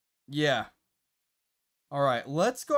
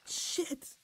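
whispered curse; 9 semitones higher, 10 dB quieter than usual. Real, not acted. Frustrated aside.

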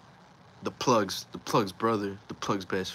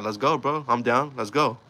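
retold fight challenge; 3 semitones higher, 4 dB louder than usual. Retold homie accepting the fight.

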